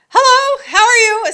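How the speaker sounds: cheerful, bubbly falsetto; friendly character voice. Retold or imitated. Greeting people on set, in a friendly falsetto. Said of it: "I'd start to be friendlier".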